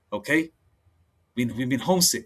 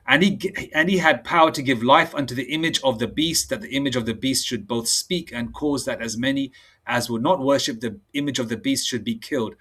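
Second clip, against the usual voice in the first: solemn preacher reading verse; scripture reading. Acted. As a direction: lay out each line of scripture deliberately. Reads Revelation aloud.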